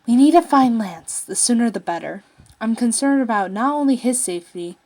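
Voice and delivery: urgent plea. Acted. Laura urging the team to find Lance, loud and urgent. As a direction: push it out, he must be found.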